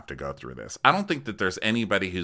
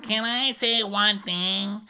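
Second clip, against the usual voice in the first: indignant whine; 13 semitones higher, slower than usual. Retold or imitated. Teresa impression, indignant.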